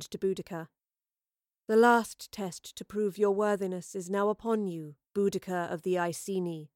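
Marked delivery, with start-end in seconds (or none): 1.7-6.7 measured, solemn intoning, sinking at the end. A narrator's reading. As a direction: intone it like a goddess setting a test. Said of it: "she intoned".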